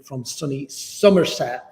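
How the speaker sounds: slow, drawn-out attempt at a Somerset accent; hammed-up Somerset accent; terrible Somerset accent. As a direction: put on a bad Somerset burr. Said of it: "that was my terrible Somerset accent".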